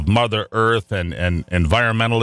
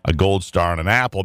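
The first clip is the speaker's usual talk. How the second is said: game show host. Pretend. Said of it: "Behind door number three".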